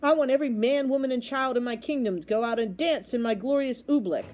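mildly exultant royal proclamation; exultant king. Acted. King proclaims a holiday for his kingdom, exultant. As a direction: declare it with kingly glee.

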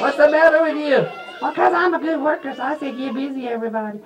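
high-pitched perky hen puppet; little red hen. Pretend. Puppet greets boys and girls, high little red hen voice. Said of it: "I'm the little red hen".

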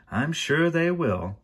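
high, slow, drawn-out assurance; hearty interjection. A narrator's reading. Banker breaking in on the henchman, high and drawn out. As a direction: sail in loftily with stretched words. Mister Poe breaks in cheerily.

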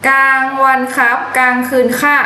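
a hint of a dramatic TV hero; old drama line. Quoting an old TV drama to a friend, a lightly hammed line. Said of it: "ที่เขาบอกว่า".

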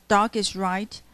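"Dark is right" with "Dark" and "right" both stressed; stressed words. Shown as a demonstration. Teacher marking stresses in the line.

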